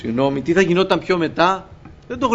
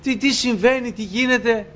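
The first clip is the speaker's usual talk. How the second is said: angels shouting; 5 semitones higher than usual. Retold or imitated. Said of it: "να φωνάζουν".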